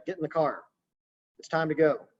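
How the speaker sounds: lightly voiced parent directing kids; mild, matter-of-fact order with downward inflection; parent giving direction. Shown as a demonstration. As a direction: direct the kids without asking. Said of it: "you're giving direction".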